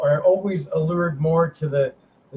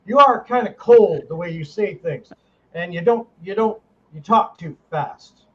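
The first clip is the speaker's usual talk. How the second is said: put-on Arkansas accent. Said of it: "He does this in his Arkansas accent".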